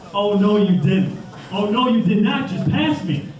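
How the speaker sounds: high, slow, sassy "oh no you didn't"; drawn-out, sing-song outrage at the driver; sassy indignation. Retold or imitated. Speaker retelling how he scolded a passing car, sassy and slow. Offended driver being passed.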